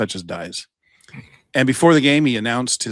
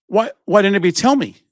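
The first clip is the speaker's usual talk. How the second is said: mock indignant mom; 7 semitones higher, faster than usual. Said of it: "she's pissed".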